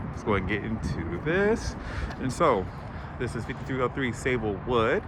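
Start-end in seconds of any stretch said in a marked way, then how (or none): 2.2-5.0 muffled behind a face mask; talking through mask. Real, not acted. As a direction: speak with a mask over your mouth. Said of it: "kinda hard to talk with the mask on".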